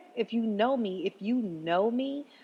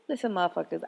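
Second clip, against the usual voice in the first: ordinary talk, nothing marked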